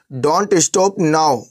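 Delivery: very slow, every word spelled out; slow clear gloss. Shown as a demonstration. Teacher glossing for students, very slow and deliberate. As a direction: say it slowly for learners. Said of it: "teacher glosses phrase for learners".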